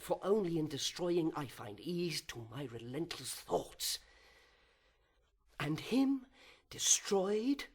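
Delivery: a proud fallen angel brooding aloud, swinging from whispers to outbursts; fallen angel's soliloquy. Acted. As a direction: seethe with envy and wounded pride, then spit out the vengeance.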